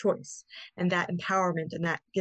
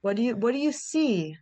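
curious questioning. Shown as a demonstration. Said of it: "And then you can then say".

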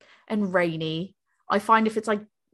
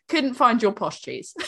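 laughing quote. Retold or imitated. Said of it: "And he's like".

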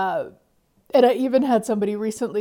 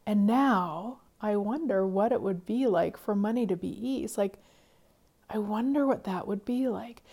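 soft wonder; 7 dB quieter than usual. Shown as a demonstration. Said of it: "So even when I wonder sometimes".

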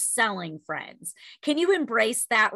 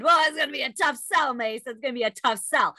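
inner thought; faster than usual. Retold or imitated. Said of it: "I'm thinking in my head".

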